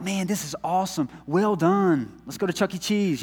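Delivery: mock excited dad. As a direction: celebrate them like a happy father. Proud dad praising kids.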